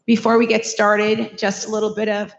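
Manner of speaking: hoarse, scratchy throat. Real, not acted. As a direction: speak through a scratchy sore throat. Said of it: "Sorry for my scratchy voice".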